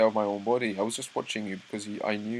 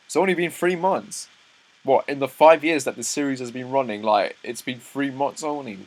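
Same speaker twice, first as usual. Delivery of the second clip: disbelief; 4 semitones higher, 7 dB louder than usual. Real, not acted. Reacting in disbelief to short timeline.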